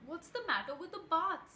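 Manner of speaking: high, loud, puzzled questioning; surprised. A narrator's reading. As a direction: ask in open surprise, pitch jumping up.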